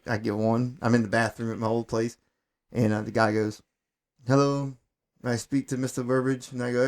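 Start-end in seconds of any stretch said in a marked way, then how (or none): 4.3-6.5 lightly imitated Middle Eastern caller; a hint of a Middle Eastern accent on the phone; retold caller with a light Middle Eastern accent. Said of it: "you know, with his accent".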